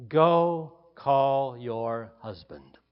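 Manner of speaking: slow, gentle pastoral request. Acted. Jesus gently asking the woman at the well, slow and tender. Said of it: "In a pastoral kind of way".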